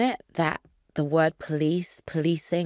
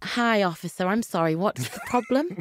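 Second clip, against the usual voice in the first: put-on, heavily English accent laid on thick; 3 semitones higher than usual. A wife speaking to a police officer during a stop, in a very English accent. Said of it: "I'll do it in a very, very English accent".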